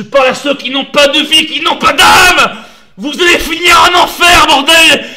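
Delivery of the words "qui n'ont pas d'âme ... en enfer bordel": angry shout. Real, not acted. Angry rant at trolls.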